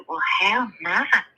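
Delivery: slow, stretched mock-polite belle; Southern belle. Belle looking rival up and down, mock-polite drawl. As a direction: draw out a politely dismissive compliment. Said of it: "the other lady looked her up and down".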